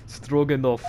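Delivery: put-on giggling, slow Russian accent; laughing Russian sailor accent. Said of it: "I like to do Russian accents".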